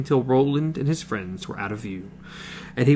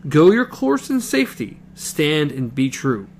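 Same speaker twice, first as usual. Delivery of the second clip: voice breaking. Acted. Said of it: "Her voice trembled and broke on the last word".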